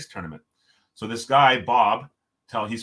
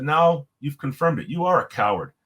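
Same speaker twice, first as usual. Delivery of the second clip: retold accusation; 4 semitones higher, 4 dB louder than usual. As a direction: deliver a retold verdict, leaning on the words. Retold confrontation, delivering the final verdict.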